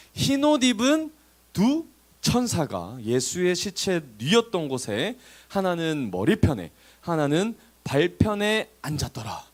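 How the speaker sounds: slow, measured verse reading; scripture reading. A narrator's reading. Preacher reading the resurrection account to listeners, slow scripture reading. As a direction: read it out deliberately, drawing out phrase ends. Reads the Bible verse aloud.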